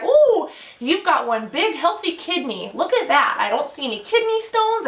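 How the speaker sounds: imitated technician marvelling; lightly acted, impressed technician remark; drawn-out "ooh", then pitch climbs; ultrasound technician. Acting out the ultrasound technician examining.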